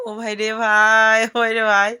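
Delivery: slow, loud drawn-out oh brother; slow, loud cry of delight over sweet fruit; delighted exclamation. Real, not acted. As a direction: savour the taste out loud. Savouring home-grown papaya.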